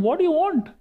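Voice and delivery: acted repeat demand to a monster; retold challenge. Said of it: "Krishna again asked him".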